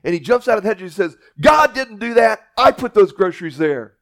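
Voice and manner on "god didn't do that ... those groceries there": gloating shout. Acted. Atheist leaps out, gloating.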